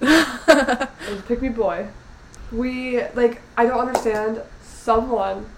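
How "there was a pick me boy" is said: laughing. Real, not acted. Joking while laughing.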